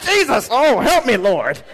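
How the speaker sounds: a hammed-up yelp of "Oh, Lord Jesus" after smashing a finger; pained cry to Jesus. Someone who hit their finger calls on Jesus, hammed-up yelp. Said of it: "you hit your finger on something, you say".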